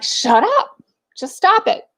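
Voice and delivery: high-pitched mock yell at the kids; exasperated retold yell, voice jumping up. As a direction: act out scolding without full volume. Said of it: "screaming at the top of my lungs".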